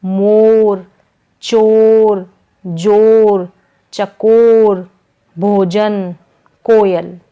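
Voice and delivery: teacher projects each example word; emphatic word list. Shown as a demonstration. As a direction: call each word out for children to copy. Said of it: "ओ की मात्रा से बनने वाले कुछ शब्दों".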